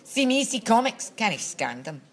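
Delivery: grouchy Scottish patter; grouchy Scots demo. Shown as a demonstration. Giving a trailer for a grouchy course, grouchy Scots. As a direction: start high and drop away, grouchy Scots. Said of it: "That was more Chinese".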